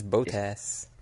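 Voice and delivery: Bottas with long O, "BOH-tass"; American pronunciation. Shown as a demonstration. American insisting on their own way, Bottas as boh-tass. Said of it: "Americans can't say that".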